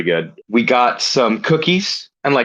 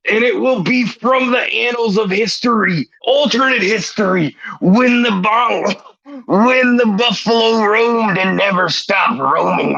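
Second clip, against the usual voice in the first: lightly voiced wrestling promo, brother; a hint of Hulk Hogan hyping the crowd; Hulk Hogan style; 5 semitones higher than usual. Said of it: "Hulk Hogan style".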